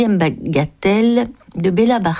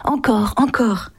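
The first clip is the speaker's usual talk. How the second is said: commanding; 4 semitones higher than usual. Acted. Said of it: "commandait l'homme là-bas".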